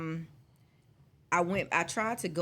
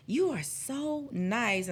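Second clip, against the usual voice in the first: slow, syrupy fake sweetness; mock-sweet, eyes rolling; sarcastic; 5 semitones higher, much slower than usual. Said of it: "I'm rolling my eyes like".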